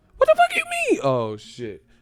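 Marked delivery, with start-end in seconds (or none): 0.2-1.0 sudden, very high, loud voice crack. Acting out someone talking tough whose voice suddenly gets high. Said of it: "then they voice get high out of nowhere".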